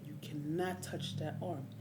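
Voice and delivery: slow warning leaning on "cannot"; emphatic warning. Retold or imitated. Injured man repeats warning to crew, stressing "cannot". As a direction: stretch and stress "cannot" firmly.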